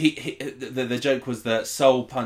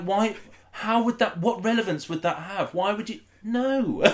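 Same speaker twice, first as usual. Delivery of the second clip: mock indignant reply; 9 semitones higher than usual. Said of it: "And you were like".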